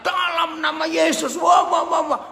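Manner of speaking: high mock shouted prayer running into babble; imitated prayer shout. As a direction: cry out like a noisy prayer meeting. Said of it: "Kita teriak".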